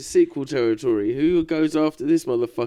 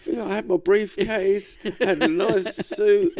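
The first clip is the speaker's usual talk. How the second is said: slow, higher, mock-innocent pirate voice; Kidd's self-defence; 6 semitones higher than usual. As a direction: play up the gentleman pirate pleading his case. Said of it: "He's like".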